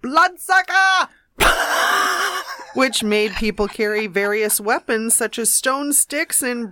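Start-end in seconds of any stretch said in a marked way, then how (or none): 0.0-2.7 stifled laugh. Real, not acted. Reading funny news word.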